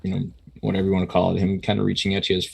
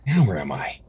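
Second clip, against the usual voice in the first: confused inner voice; 5 semitones higher, 4 dB louder than usual. Acted. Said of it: "a voice in the back of your mind kind of going".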